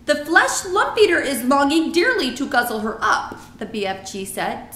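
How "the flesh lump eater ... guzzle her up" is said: BFG, slight smile. A narrator's reading. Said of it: "smiling a little now".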